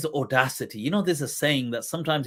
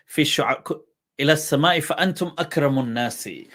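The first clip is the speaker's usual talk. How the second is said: fast, rhythmic Arabic verse recital; poetry recitation; much faster than usual. Shown as a demonstration. Reciting the poet's praise verse to his audience, rhythmic and fast. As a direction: declaim the verse quickly.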